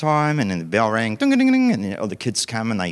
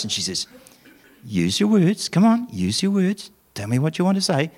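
quiet coaxing; 6 semitones higher than usual. Retold or imitated. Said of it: "goes quietly up to them, really close".

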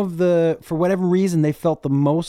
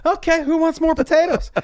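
awkward deflection; 11 semitones higher than usual. Pretend. Parent dodging at imagined dinner.

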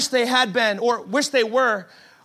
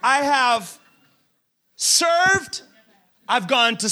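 slightly raised, whiny complaint to God; exasperated pleading believer; slower than usual. Retold or imitated. A frustrated believer complaining to God, lightly whiny and pleading. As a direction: list your efforts like you're owed an answer. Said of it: "It's like".

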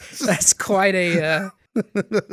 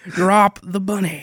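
mock Southern drawl; slower than usual. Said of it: "a drunken Southern drawl the whole time".

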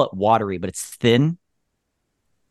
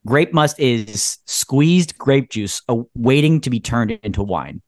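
slower repeat. Shown as a demonstration. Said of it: "Repeat that?".

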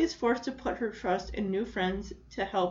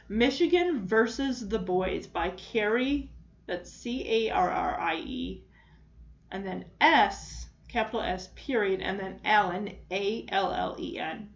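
dictating. Shown as a demonstration. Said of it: "spelling out the author's name".

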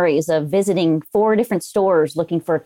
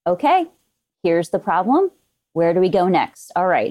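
composed, taking it step by step; cool, calm, collected. Acted. Anesthesia specialist working through a crisis, cool and collected. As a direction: calmly run down a checklist. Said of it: "calm, and collected".

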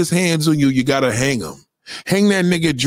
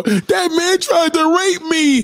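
put-on high, slow child's voice; little kid; 13 semitones higher, slower than usual. Kid at the store accusing a man, high slow child voice. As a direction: play a small kid accusing someone, drawn out. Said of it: "Little kid come in the store".

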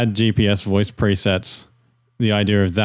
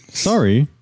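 voice assistant; 7 semitones higher than usual. Pretend. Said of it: "Okay, Google".

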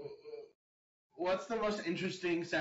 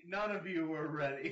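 laughing shout. Real, not acted. Laughing, shouting after the joke.

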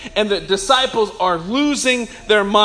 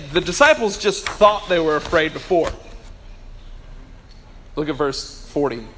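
normal talking voice

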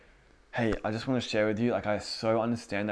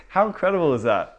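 laughing, much higher and louder; a real laugh of amazement; 8 semitones higher, 9 dB louder than usual. Real, not acted. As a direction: burst out with a laugh of delight. Laughs, excited exclamation.

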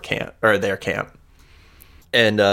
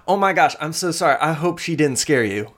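higher, rushed apology; flustered apology; 7 semitones higher, faster than usual. Acted. Woman apologizes to strangers for her creature, flustered. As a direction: apologize fast, pitched up.

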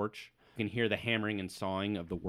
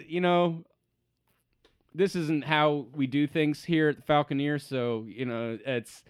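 raised voice, awkward peacemaker; placating worker; 5 semitones higher, 6 dB louder than usual. Acted. Worker tapping the halfling's shoulder, placating. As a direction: talk the hothead down, pitched up at first, then easing. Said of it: "He's like".

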